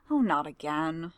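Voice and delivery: slow, tired sigh of a line; a put-upon clerk dreading another complaint; weary groan. Acted. Weary aide sees another complainant.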